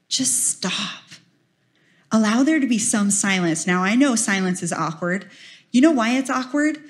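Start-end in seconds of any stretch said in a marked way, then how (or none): 0.1-1.0 breathed, voiceless whisper; hushed stop. Shown as a demonstration. Speaker urging listeners into silence, whispered. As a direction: softly whisper the command to stop.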